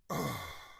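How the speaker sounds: disgusted sigh. Real, not acted. Disgusted reaction to the list.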